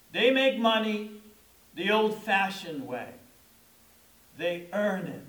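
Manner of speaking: measured, weighty pitchman read; Houseman ad tagline. Retold or imitated. Preacher quoting the ad tagline, lightly imitating John Houseman. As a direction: deliver it like the old commercial spokesman. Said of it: "there was always that emphasis on".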